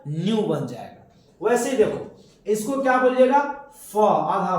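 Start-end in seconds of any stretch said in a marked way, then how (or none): 0.1-1.5 न्यू said slowly, half n gliding into yoo; slow clear nyoo. Shown as a demonstration. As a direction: stretch न्यू for the class. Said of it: "क्या बन जाएगा बच्चा?". (धीरे से न्यू, आधा न फिर यू)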